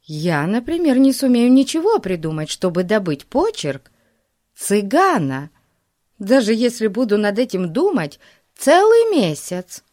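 put-on high-pitched, doubtful girl's voice; Daisy. A narrator's reading. Daisy doubts she could get the gypsy's handwriting, high and emphatic. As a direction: lift the pitch and protest that it can't be done.

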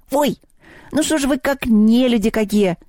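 high-pitched whimpering complaint; hammed-up high whimper; whining goblin. A narrator's reading. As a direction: whine like a hard-done-by goblin. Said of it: "захныкал кабинетный".

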